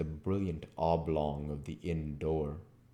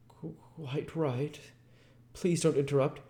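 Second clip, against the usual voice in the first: jerking intonation; 10 semitones higher than usual. Acted. The vicar answering through the door with a jerky intonation. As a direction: stumble out the reassurance in jerks. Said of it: "with a curious jerking intonation".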